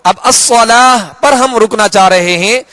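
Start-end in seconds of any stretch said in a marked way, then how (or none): 0.2-1.2 الصلاۃ ending in "tu"; wrong voweled ending. Shown as a demonstration. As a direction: say الصلاۃ as "as-salaatu". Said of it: "یوں کہہ کر نہیں".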